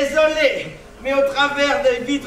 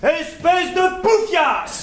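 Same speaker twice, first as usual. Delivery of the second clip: mock insult; 3 semitones higher, slower than usual. Staged fake quarrel insult.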